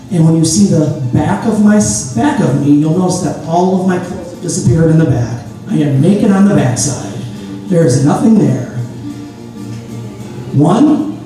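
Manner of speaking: ordinary talk, nothing marked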